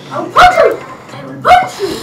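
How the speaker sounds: playful threat shout. Pretend.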